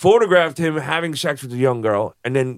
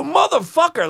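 mock dismay; 13 semitones higher than usual. Retold shocked curse at Howard.

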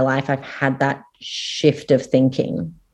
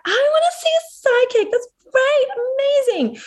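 high-pitched drunken enthusiasm, imitated; faster than usual. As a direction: gush like an excited drunk retelling herself. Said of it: "in my very drunk state".

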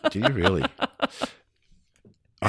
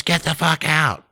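retold angry yell; 9 semitones higher, slower than usual. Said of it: "And she goes".

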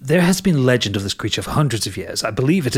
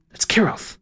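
whispered, a hushed dramatic reveal; ominous whisper; 7 semitones higher than usual. Acted. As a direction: drop to a whisper to name the monster.

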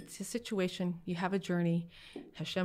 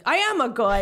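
louder, higher indignant protest; indignant dad; 6 semitones higher, 11 dB louder than usual. Retold or imitated. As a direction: insist it like an outraged dad. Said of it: "And my dad was like".

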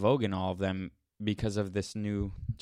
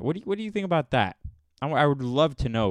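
indignant demand; 3 semitones higher, 5 dB louder, faster than usual. Real, not acted. Challenging the reviewer.

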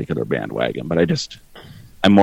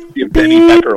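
very high, bleeping squeak; high squeaky mock voice; 8 dB louder than usual. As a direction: squeak like a censor beep. Mock sponsor bleep joke.

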